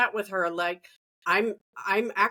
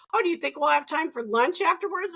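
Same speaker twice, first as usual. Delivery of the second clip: 1 hopeful mom; 7 semitones higher than usual. Retold or imitated. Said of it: "And she's like".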